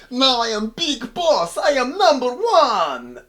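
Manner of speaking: high, loud, slow Russian yell; triumphant mock shout. Krichkov declaring himself boss, triumphant Russian yell. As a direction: roar it like a new boss.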